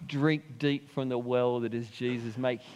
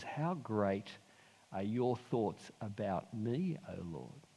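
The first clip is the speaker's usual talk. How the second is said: softer, slowing on "your thoughts about me"; hushed correction; 6 dB quieter, slower than usual. Shown as a demonstration. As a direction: quietly give "your thoughts about me" weight. Actually, it doesn't say that.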